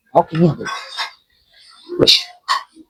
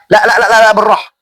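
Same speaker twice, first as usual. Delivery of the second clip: laughing panic; 4 semitones higher, 3 dB louder than usual. Real, not acted. Laughing panic under attack.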